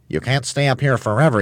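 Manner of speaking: high chirpy bird; eager high volunteer. A narrator's reading. Roly-poly bird voice.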